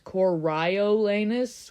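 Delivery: Coriolanus slowly in the established form; dictionary pronunciation. Shown as a demonstration. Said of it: "the result that I got was".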